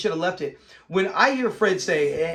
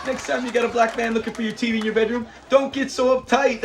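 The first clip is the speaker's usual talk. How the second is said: laughing through it; 4 semitones higher than usual. Retold or imitated. Retelling Fred's punchline, laughing.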